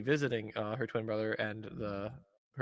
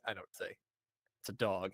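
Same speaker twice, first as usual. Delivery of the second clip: hushed mock reply; 4 semitones lower, 5 dB quieter than usual. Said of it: "And he's like".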